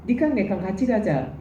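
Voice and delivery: Korean regional dialect, lightly demonstrated; casual dialect version of the Seoul phrase. Shown as a demonstration. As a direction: put it in provincial dialect. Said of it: "완전히 다른 발음이지만".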